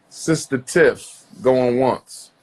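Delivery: slow, drawn-out auctioneer call. Acted. Host calling Sister Tiff onto the line, slow auctioneer call. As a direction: call her name like an auction countdown.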